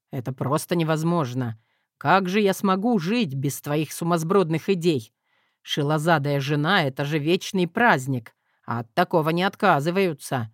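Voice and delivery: low, amused chuckling tone; amused husband. Acted. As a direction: tease her with a low smirk. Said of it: "хмыкнул Тим".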